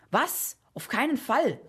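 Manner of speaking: high, startled refusal; indignant exclamation. A narrator's reading. Ahasverus refusing to pay the boy, exclaiming indignantly. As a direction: pitch leaps up in disbelief. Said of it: "rief Ahasverus".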